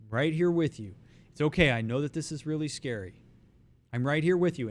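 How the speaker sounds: soothing, steady comfort; ground them, keep them with you; reassuring. Shown as a demonstration. Coach comforting a panicking person who says they're not okay, soothing. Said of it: "And if they do, you go".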